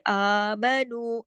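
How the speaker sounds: आमनु with long आ and long नु; measured, sustained आमनु; lengthened vowels. Shown as a demonstration. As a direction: recite आमनु slowly, stretching first and last vowels. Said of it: "आ की आवाज क्यों खींची".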